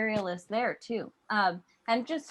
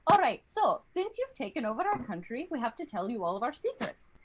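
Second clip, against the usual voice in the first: lilting Irish sales pitch; Irish accent; 2 semitones higher than usual. Acted. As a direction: spin a tall tale in an Irish accent. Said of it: "they were like".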